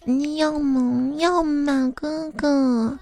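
put-on sugary girl's voice, pleading and drawn out; sweet girlish coaxing. Girl in voice chat coaxing a gamer into buying a skin, sugary pleading. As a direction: coax him like a cute girl begging big brother. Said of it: "那声音甜的".

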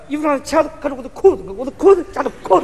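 rattled off fast like fake English; quick mock English. Comic repeats the fake English tongue twister quickly, rushed. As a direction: rush the words as if speaking English. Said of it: "你再说一遍".

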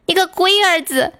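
mock scolding a kid in Sichuan dialect; Sichuan accent. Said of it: "一边揍一边用四川话就骂他们小孩儿说".

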